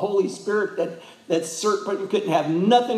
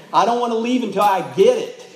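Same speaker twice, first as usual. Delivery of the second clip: higher, quick, insistent mock plea; acted begging; 5 semitones higher, 4 dB louder, faster than usual. Preacher voicing believers who beg God, mildly pleading. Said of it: "we beg him that we want it".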